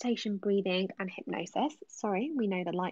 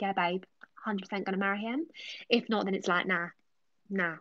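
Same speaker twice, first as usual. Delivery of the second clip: Amy. Acted. Amy answering a viewer's marriage proposal, lightly voiced character. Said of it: "that's the answer that Amy is currently giving".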